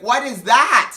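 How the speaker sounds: high, loud mock disbelief; imitating a shocked cleaner; appalled. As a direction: cry it out in horror.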